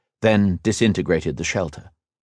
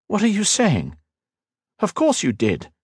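sharply raised, puzzled question; surprised; 13 semitones higher than usual. Acted. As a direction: ask in disbelief. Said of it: "Liniel furrowed his brow".

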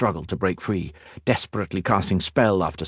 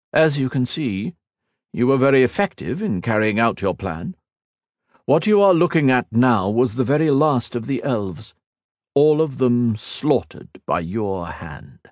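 sneering villain; 5 semitones higher than usual. Acted. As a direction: savour every cold word. Shinzan admiring the slaughter.

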